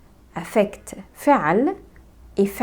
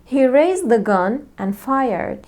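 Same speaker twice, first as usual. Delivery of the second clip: slow example sentence; much slower than usual. Shown as a demonstration. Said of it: "For example".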